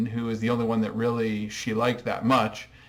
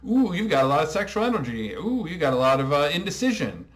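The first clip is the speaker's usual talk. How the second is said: higher breathy ooh, mystical healer parody; mock Reiki healer; 4 semitones higher than usual. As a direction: coo like a new-age healer reading auras. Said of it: "Is like".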